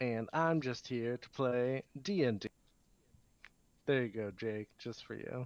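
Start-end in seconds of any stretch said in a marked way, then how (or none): 0.0-2.5 put-on spoken-word slam poetry cadence. Introducing oneself for the show as a joke: mock slam poetry delivery. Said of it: "Anything can be a slam poem if you say it like this".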